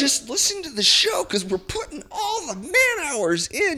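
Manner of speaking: high giggling pleading; real laughter through the plug; laughing plea. Real, not acted. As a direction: beg them to listen while laughing.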